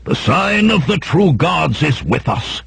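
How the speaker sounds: high-pitched zealous proclamation; crying out. A narrator's reading. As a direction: proclaim it as a triumphant mage, without extra volume. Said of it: "the red-robed mage cried, flinging wide his arms".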